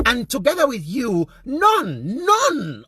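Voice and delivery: high, loud condemnation; real indignation. Real, not acted. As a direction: ring it out in outrage at the leaders. Condemns ministers' silence over rape.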